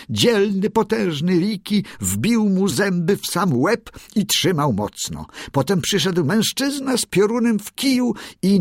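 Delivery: high, eager bird voice singing praise; proud songbird crowing the victory; excited little bird. A narrator's reading. Darci praises Riki in song.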